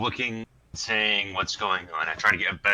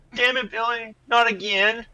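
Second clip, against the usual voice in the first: shrill, very high shouting; 4 dB louder than usual. A player's character sprints toward another character in a game, yelling. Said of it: "As I'm yelling".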